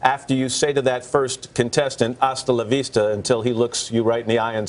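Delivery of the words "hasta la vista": Austrian accent imitation. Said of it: "I like the way you do that with the accent".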